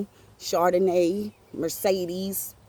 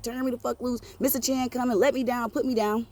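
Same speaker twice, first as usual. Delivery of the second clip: higher-pitched urgent mock pleading; retold cussing protest; 5 semitones higher than usual. Kid held by Big T as Mister Chan comes, mock cussing protest. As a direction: act out struggling to get free, without shouting. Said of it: "I'm cussing".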